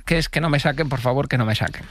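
measured radio-intro read; scripted podcast intro delivery; presentation read. Acted. Reads the show's presentation.

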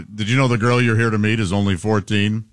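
low mock TV interrogator; Chris Hansen. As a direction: lightly play the grave investigative host. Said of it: "Chris Hansen things".

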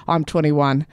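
ordinary talk

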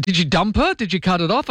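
retold incredulous questioning. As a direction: quote a friend checking in disbelief. Retelling colleague's incredulous questions.

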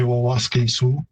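Wawaske Sioux with the first syllable doubled, wa-wa-ske-sioux; the Plains Cree way, Wawaske Sioux; Plains Cree pronunciation. Shown as a demonstration. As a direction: say Wawaske Sioux in full Cree form, all four syllables. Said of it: "in Plains Cree, I'd say".

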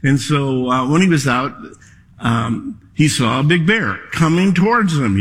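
normal talking voice

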